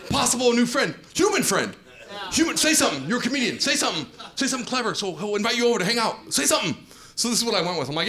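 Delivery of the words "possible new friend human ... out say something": excited inner pep talk. Retold or imitated.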